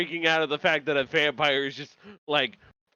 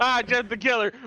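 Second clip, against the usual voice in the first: higher, louder mock shout; 8 semitones higher, 3 dB louder than usual. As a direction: yelp it like a mock scare. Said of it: "You were shouting".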